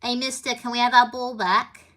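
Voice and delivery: best attempt at a Liverpool accent; cheeky Beatle call in a put-on Liverpool accent. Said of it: "do my best Liverpool accent".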